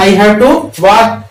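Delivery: slow, careful English model line; "I have to speak" drawn out word by word for learners; slow drill. Shown as a demonstration. Teacher models English for Hindi-speaking students, slow and careful. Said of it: "first form में आपको बोलना है".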